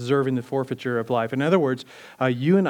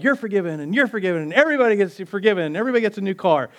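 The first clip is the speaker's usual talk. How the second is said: higher, fast, gushing giveaway host; a hint of Oprah, quick and higher; 4 semitones higher, faster than usual. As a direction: hand out forgiveness like free cars. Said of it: "like Oprah".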